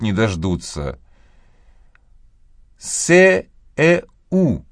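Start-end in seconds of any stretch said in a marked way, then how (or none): 2.8-4.6 impatient prompt. A narrator's reading. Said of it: "потеряв терпение".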